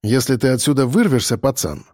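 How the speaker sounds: composed, level reply; unruffled, matter-of-fact put-down; calm. Acted. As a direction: answer the threat without raising your voice. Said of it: "сказал я спокойно".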